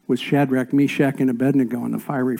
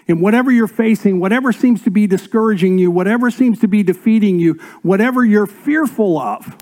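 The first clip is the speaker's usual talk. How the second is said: higher, louder and fast, piling up each whatever; building intensity; 6 semitones higher, 5 dB louder than usual. Real, not acted. Preacher rallying the congregation, fast and loud. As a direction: drive the list hard and fast.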